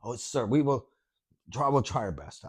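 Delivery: put-on soft, low, lightly Arab-accented agent; attempted French that comes out Arab-accented. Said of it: "a Arab accent for some reason".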